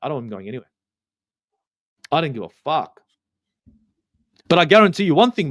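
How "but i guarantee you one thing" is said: loud and emphatic, leaning on guarantee. Real, not acted. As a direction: punch out guarantee like a promise. Stressing a firm prediction.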